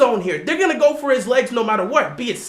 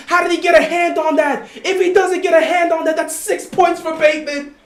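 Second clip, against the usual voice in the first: high, worked-up protest; exasperated disbelief; 5 semitones higher than usual. Real, not acted. Fan reacts to a touchdown pass knocked away, exasperated disbelief. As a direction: cry out in disbelief at a near miss, pitch raised.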